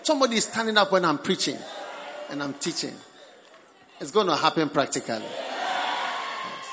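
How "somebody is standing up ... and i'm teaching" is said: mock excited listener. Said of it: "stand up and say".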